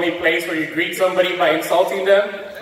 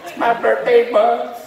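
put-on birthday girl; 5 semitones higher, slower than usual. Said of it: "the females like to celebrate".

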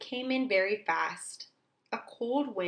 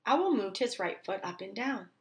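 usual speaking voice

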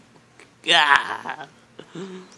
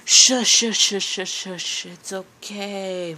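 fading mock soothing shush. Calming the victim.

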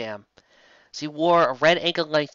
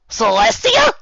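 high amazed cry; 10 dB louder, slower than usual. Acted. Megan amazed.

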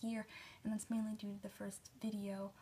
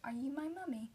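put-on British accent; 4 semitones higher than usual. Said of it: "say it in British accent".

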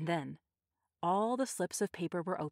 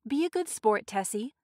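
raised, higher calling voice; 4 semitones higher, 6 dB louder than usual. A narrator's reading. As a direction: call across to a friend. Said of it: "Missus Delacroix called".

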